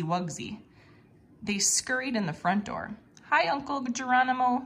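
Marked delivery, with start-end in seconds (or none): 3.3-4.6 exclaimed. A narrator's reading. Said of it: "Benjamin exclaimed".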